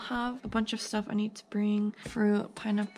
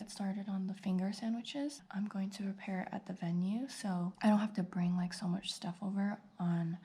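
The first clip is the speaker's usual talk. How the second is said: whispering; 4 dB quieter than usual. Real, not acted. Whispers the day's to-do list.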